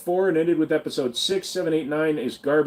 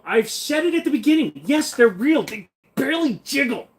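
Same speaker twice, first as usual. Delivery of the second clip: much higher, teasing squeal; mock high voice; 10 semitones higher than usual. Teasing chat with a camp high squeal. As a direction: squeak it out like a joke.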